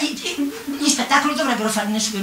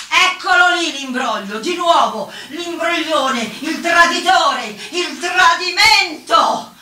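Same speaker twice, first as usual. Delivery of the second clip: building higher and louder to a drawn-out finish; outraged accusation; 7 semitones higher, 4 dB louder, slower than usual. Acted. Woman denouncing the trickster, building outrage. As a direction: pile up accusations, each higher, stretching the last.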